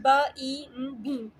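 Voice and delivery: ब, ई, म said one by one, then बीम blended; sounding out beam. Shown as a demonstration. Teacher showing students how बीम is built from sounds. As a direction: separate each sound, then join them up. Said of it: "बीम की देखें".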